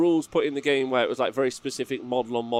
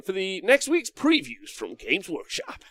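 announcer voice; 5 semitones higher, slower than usual. Pretend. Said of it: "my announcer voice".

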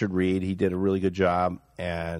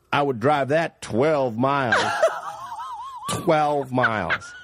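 laughing while talking; 4 semitones higher, slower than usual. Real, not acted. Laughing while retelling the story.

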